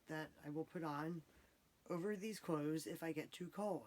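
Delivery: soft, hushed late-night talk; hushed bedtime voice. Real, not acted. Bedtime talk, family asleep.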